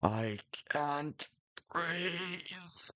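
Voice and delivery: high, breathless pleading, gasping for air; desperate plea for help. Acted. Chris alone after a nightmare, desperate high plea. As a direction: beg for help like you're suffocating.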